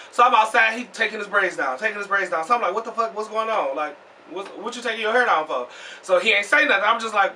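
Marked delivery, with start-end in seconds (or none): 2.7-5.7 much softer, puzzled asking; hushed questions. Retold or imitated. Asking a silent friend outside why he takes his braids down, hushed.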